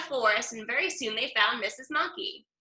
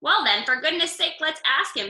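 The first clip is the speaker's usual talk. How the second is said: exasperated; 4 semitones higher, 3 dB louder than usual. Acted. Freddie exasperated.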